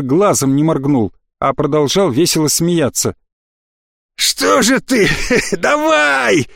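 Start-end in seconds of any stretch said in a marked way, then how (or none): 4.1-6.5 high, mocking voice wheezing with laughter; high wheezy jeering laugh-talk; wheezing through laughter. A narrator's reading. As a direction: taunt him while cackling hoarsely. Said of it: "сквозь хохот прохрипел Атанак".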